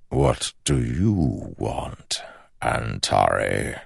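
slow unvoiced shadow whisper; dark whisper behind you. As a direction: whisper the question into his ear.

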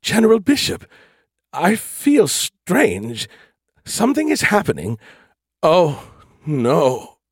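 high, alarmed ship computer; distressed AI voice. Acted. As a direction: sound like a failing machine.

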